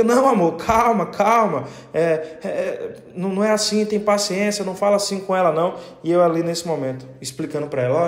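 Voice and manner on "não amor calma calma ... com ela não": lightly voiced wife soothing her angry husband; lightly voiced wife begging her husband to calm down.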